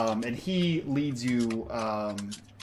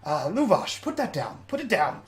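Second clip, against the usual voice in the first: smooth NPC voice; 8 semitones higher than usual. Acted. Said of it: "walks over and says".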